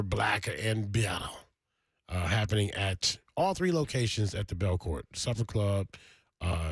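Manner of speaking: smooth DJ event announcement; radio promo read. Acted. Reads sponsor and event promo.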